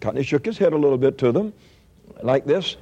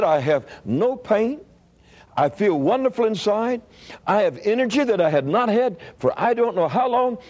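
retold elation; 7 semitones higher than usual. Healed patient praising God, retold.

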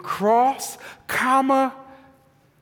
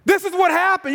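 failed whisper; 7 semitones higher, faster than usual. Retold or imitated. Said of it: "really lacked the ability to whisper".

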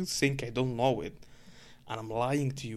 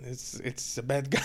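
chuckling. Retold or imitated. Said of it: "chuckled like this again".

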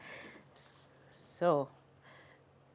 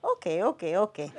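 quick, low, soft okays; 5 semitones lower, 6 dB quieter than usual. A narrator's reading. Father moving on to his next question, very quick. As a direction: rattle them off low and soft. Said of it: "Then very quickly he says".

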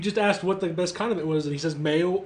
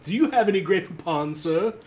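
put-on posh British accent; 3 semitones higher than usual. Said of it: "he asks in a very posh accent".

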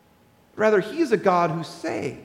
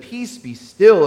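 slow, louder commanding calm; Jesus commanding; 6 dB louder, slower than usual. Retold or imitated. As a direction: command the storm slowly. Jesus calming the storm.

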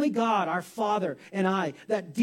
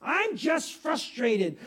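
frustrated husband; much slower than usual. Retold or imitated. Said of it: "You say".

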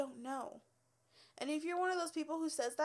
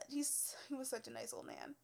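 soft whisper; 6 dB quieter than usual. Real, not acted. Tender memory of client.

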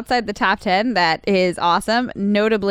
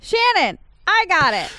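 higher sung-out "Shannon"; mock catchphrase; 8 semitones higher than usual. Host reclaiming her old intro catchphrase, pitched higher. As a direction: belt her own name like a catchphrase. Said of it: "you no longer say".

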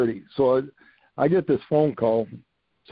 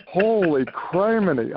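amazed exclamation; 6 semitones higher, slower than usual. Real, not acted.

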